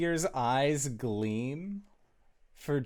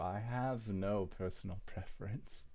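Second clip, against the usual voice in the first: smooth-talking character; 4 semitones lower, faster than usual. Acted. Plays figure making an offer.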